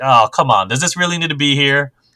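plain

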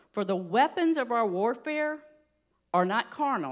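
slow, deliberate, unhurried reading, each word placed. Reading a Bible verse aloud to a group: reading slowly. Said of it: "I'm gonna read this kinda slow".

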